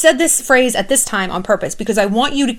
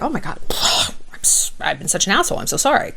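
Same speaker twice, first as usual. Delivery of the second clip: softer whispered sorry; mock remorseful whisper; 3 semitones lower, 5 dB quieter than usual. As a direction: breathe it out like a guilty friend. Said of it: "It's not the people who are like".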